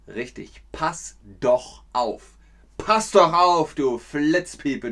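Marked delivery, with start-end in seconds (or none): 2.8-4.9 loud scolding. Shown as a demonstration. Scolding example insult.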